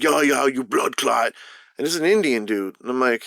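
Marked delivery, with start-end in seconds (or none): 0.0-1.3 lightly put-on Jamaican patois; mock Jamaican accent. Man retelling the insult yelled at him, mock Jamaican accent. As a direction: imitate an angry Jamaican-style curse. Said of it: "he hangs out with some Jamaican".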